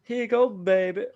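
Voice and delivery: high, warm Southern auntie voice; Southern accent. Retold or imitated. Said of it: "I'm not really gonna do an impression".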